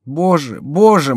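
high, fervent plea; praying. A narrator's reading. Diana prays for Bussy in danger, high fervent plea. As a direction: plead to heaven, mounting on the repeat. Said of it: "молилась Диана".

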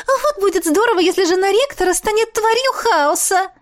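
gleeful ghost. A narrator's reading. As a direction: relish the idea like a naughty spirit. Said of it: "Она захихикала". (восторженный голосок привидения)

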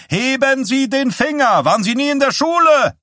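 exasperated high yell at unruly reporters; shouting. A narrator's reading. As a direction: shout it like scolding a rowdy class. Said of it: "schrie Wysack".

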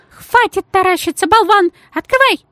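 very high, loud command; lady shouting at the doorman, very high and loud; barked order. A narrator's reading. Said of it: "приказала".

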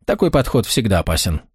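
plain reading voice

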